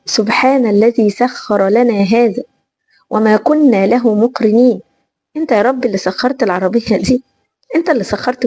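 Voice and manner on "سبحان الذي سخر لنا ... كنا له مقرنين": slow, measured classical Arabic prayer; supplication recital. Shown as a demonstration. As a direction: recite it deliberately, phrase by phrase. (تلاوة دعاء السفر بتمهّل)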